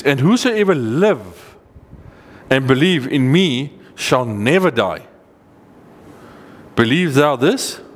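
slow, deliberate verse, key words swung upward; emphatic scripture reading. A narrator's reading. Preacher reading Jesus' promise to the congregation, slow and emphatic. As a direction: proclaim each phrase weightily and slowly.

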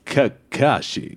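slow, drawn-out mock sensei; Guy Sensei. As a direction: stretch the name out in character. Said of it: "will you do a guy sensei for me".

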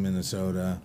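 natural Minnesota accent on the long O. Real, not acted. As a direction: Minnesota with a local round O. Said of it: "first time I've heard that come out there".

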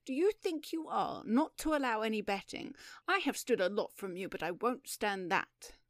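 menacing, emphatic protest; dangerous indignation. Acted. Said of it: "said Mister Maturin dangerously".

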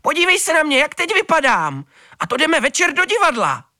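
shrill-free but very high, loud outraged rant; furious cat complaining about her ruined fur; loud high indignant cat. A narrator's reading. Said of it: "láteřila".

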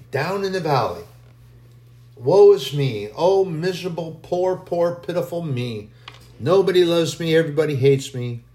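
a touch of mock misery; mock self-pity. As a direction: wail it like a sulking child. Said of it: "what they're singing about".

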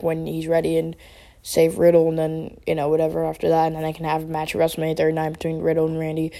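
flat, monotone robot voice; robotic monotone delivery. Real, not acted. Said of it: "I sound like a robot right now".

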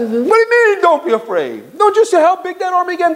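frightened retort. Retold or imitated. Mocking a scared listener who rejects the advice. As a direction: push back, disbelieving.

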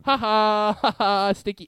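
high, giddy sing-song silly voice; joyful goofy voice. Retold or imitated. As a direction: chant the silly words gleefully. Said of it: "someone going like".

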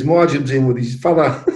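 ordinary talk

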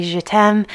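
je t'aime with French vowels; French words. Shown as a demonstration. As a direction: say je t'aime romantically. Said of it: "you would say".

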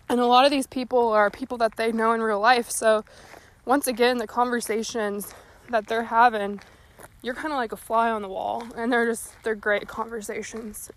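breathless from walking and talking; out of breath. Real, not acted. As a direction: talk while winded on a walk. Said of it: "Sorry, I'm so out of breath".

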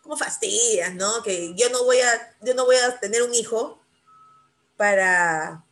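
put-on exasperated kids. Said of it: "me dicen".

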